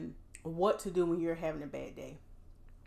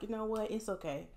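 gentle self-encouragement. Shown as a demonstration. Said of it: "encourage yourself. Be like".

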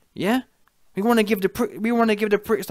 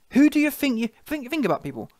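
indignant outburst; 7 semitones higher than usual. Real, not acted. Vlogger berating Dillian, high outraged outburst. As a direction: explode at him in disbelief.

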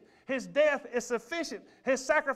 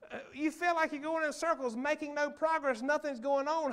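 laughing; 5 semitones higher than usual. Real, not acted. Laugh while preaching.

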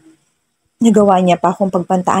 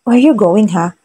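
irritated; 2 semitones higher than usual. Acted. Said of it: "he asked irritatedly".

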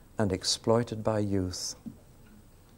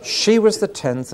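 higher, louder, slow through laughter; laughing; 10 semitones higher, 7 dB louder, slower than usual. Real, not acted. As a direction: chuckle it out. Laughing aside.

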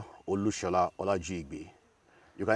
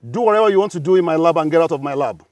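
quoting his professor; 7 semitones higher, 9 dB louder, faster than usual. Retold or imitated. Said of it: "He said".

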